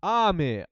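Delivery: Ame with a high start falling down. Shown as a demonstration. Explaining Japanese rain, Ame starts high and falls. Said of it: "ame starts high".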